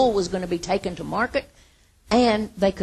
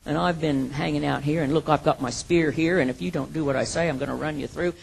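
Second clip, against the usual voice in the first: lower, self-important mock swagger; arrogant boast; 4 semitones lower than usual. Preacher imitating a boastful David threatening Nabal, mock arrogant. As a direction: puff yourself up and threaten him, lightly hammed. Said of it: "He wasn't saying".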